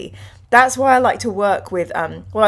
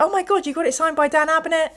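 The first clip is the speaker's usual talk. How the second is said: excited disbelief; 8 semitones higher, faster than usual. Retold or imitated. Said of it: "I opened it and I was like".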